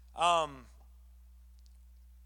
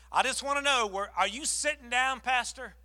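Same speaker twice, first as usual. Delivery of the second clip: higher, bursting with news; eager caller; 5 semitones higher than usual. Retold or imitated. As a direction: Linda asking her pastor, eager and higher. Linda voiced excitedly.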